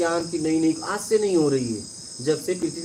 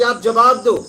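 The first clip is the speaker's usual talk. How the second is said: raised, louder voice, a mild imitated shout; retold shout; 3 semitones higher, 6 dB louder, slower than usual. Pandit demanding an answer from Ramakrishna, mild retold shout. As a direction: demand a reply, half shouting in the retelling. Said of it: "फिर उन्होंने चिल्ला के कहा".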